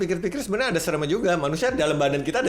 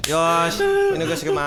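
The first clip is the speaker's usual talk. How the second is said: high, slow mock anime voice; excited anime fan; 3 dB louder than usual. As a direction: draw it out like an anime hero. Playing anime character.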